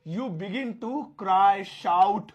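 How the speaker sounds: each word stretched out slowly; slow dictation. Shown as a demonstration. Teacher slowly dictating the sentence to students. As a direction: spell it out slowly for learners. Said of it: "अब spelling देखिएगा".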